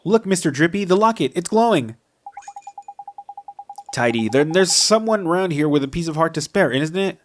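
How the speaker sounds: voicing game characters. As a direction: act out each character with a light touch.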